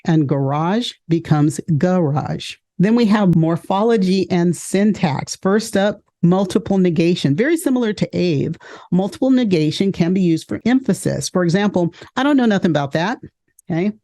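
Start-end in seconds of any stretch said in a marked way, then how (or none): 0.3-2.5 "garage" then GA-rage, first syllable hit; stress shift demo. Shown as a demonstration. Teacher contrasting stress on "garage". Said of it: "stress on a first syllable instead of a second". 12.2-13.2 quick, higher, pressing on "nothing"; emphatic double negative. Shown as a demonstration. Teacher giving an emphatic example sentence. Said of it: "That's emphasis".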